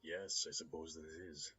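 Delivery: put-on smooth Russian-accented gentleman. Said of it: "There's a hint of a Russian accent there".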